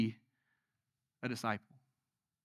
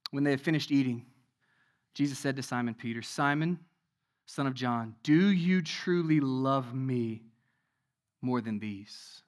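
scripture reading; 4 semitones lower, 5 dB quieter than usual. A narrator's reading. Preacher reading Jesus questioning Peter, solemn scripture reading. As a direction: read it softly and deliberately, with pauses. Reads scripture aloud to congregation.

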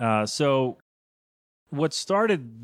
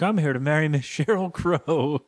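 lightly voiced geek, higher pitch; 4 semitones higher than usual. Geek announcing wedding plans on the red carpet, mock geeky voice. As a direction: imitate a geek with a slightly raised voice. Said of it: "some other geek shows up".

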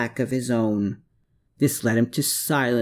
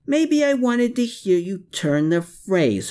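raised, taunting snarl; snarling back; 9 semitones higher than usual. A narrator's reading. Herman taunts Klaus with a raised snarl. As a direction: throw the jab right back. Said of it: "Herman snarled back".

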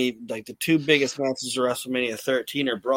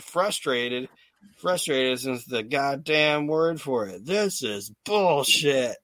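retold anger; slower than usual. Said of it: "Bret said".

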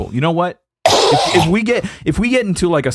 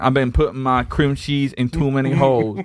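mock prayer; 2 semitones higher than usual. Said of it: "gotta bless God real quick".

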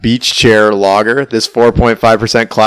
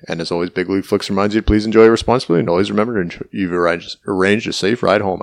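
marbles in mouth; faster than usual. Real, not acted. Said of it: "I got marbles in my mouth tonight".

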